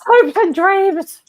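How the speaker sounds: very high, slow, loud theatrical sob; mock tragic lament. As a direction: drag it out like a melodrama. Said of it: "That's so sad".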